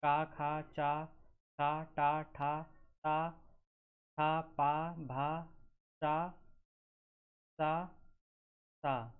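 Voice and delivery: syllables sounded out one by one; teacher sounding out. Shown as a demonstration. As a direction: pronounce each voiceless consonant distinctly. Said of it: "जैसे".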